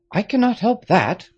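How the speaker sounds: a grave father giving orders, a touch of urgency; Marquis, grave father. A narrator's reading.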